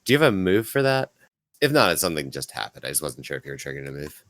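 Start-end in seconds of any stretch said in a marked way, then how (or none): 0.0-1.1 higher-pitched in-character scolding; put-on voice, exasperated at the caller; exasperated phone contact. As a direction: answer the call like you're fed up with the kid. Answers the phone as Donnelly.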